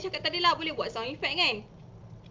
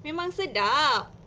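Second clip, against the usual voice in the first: slow, louder "Memang sedap" in agreement; friend agreeing; 2 semitones higher, 5 dB louder, slower than usual. Shown as a demonstration. The friend in the story agrees, slow and firm. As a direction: lean in firmly on "Memang sedap". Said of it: "kata kawannya pula".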